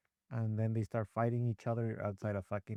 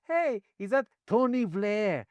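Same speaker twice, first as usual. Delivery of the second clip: mock question; 7 semitones higher, 8 dB louder, slower than usual. Parodying British rewrite.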